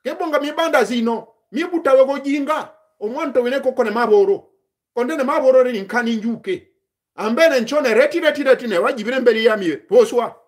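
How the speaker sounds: measured ritual address to a plant; talking to a plant. Shown as a demonstration. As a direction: speak to the tree as in a rite, respectfully. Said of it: "I just give you a single example".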